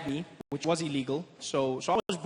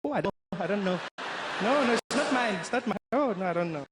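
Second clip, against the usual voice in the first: innocent denial; 4 semitones higher than usual. Retold or imitated. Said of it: "She'd be like".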